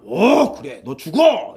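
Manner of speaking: high, hammed-up retort; play-acted harsh agreement; mock condemnation. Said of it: "이렇게".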